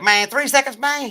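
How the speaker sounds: loud mock protest, rising high; high, incredulous protest. Inmate balking at his buddy's terms, high protest. Inmate balks at three seconds.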